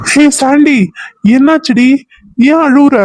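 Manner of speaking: startled into worry; husband hears his wife crying and asks, alarmed. Acted. Husband alarmed by her tears.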